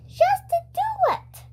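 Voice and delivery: she's sure she knows best; lightly voiced confident school nurse; nurse voice, insistent. A narrator's reading.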